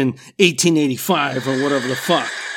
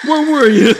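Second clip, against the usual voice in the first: higher, louder repeat of the scolding question; mother scolding her lost son, now louder; louder scolding mom; 8 semitones higher, 7 dB louder than usual. Retold or imitated. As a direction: hit it harder the second time, like a mom losing patience. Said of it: "she was like".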